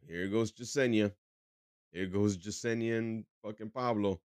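lightly voiced Latino partygoer; a touch of Latino accent, weary gossip. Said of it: "I am making it Latino".

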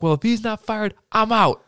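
high, loud mock huff; retold heated ultimatum; indignant quitting. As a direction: act out storming off in outrage. Retold fight, Willie storms off.

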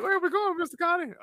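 high-pitched mock kid question; innocent kid voice. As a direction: ask Connie like a trusting little one. Voicing a kid asking Connie.

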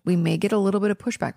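normal talking voice

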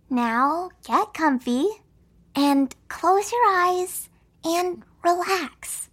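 slow soothing bedtime voice. Acted. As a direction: gently coax him to relax. Soothing a child toward sleep.

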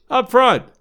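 loud, high bark of an order; yelling boss. Acted. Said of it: "yelled the boss".

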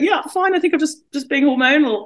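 high, light, brushing it off; fake breezy reassurance. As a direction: pretend it's nothing, brightly. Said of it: "And I'd be like".

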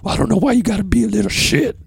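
high, quick falsetto jab; imitating Kathy. The booker insults him in a quick falsetto. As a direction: squeak it out fast and snippy.

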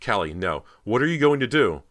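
loud plea climbing high in panic; terrified cry. A narrator's reading. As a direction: cry out in rising terror. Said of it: "feeling terror in her chest".

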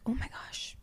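whispered, slow and strained; pained croak. Retold or imitated. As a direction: croak it out like it hurts. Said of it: "I'm like".

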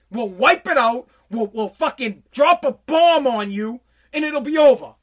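a pretend presidential warning that ends loud; stern threat. Imagined Biden threatening the Taliban.

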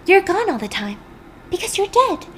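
high, rising hammed-up lament; mock wailing widow. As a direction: wail it like a melodramatic widow. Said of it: "she's like".

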